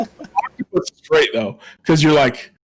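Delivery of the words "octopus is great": high, slow gushing praise; enthusiastic. Real, not acted. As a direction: sell how great it is.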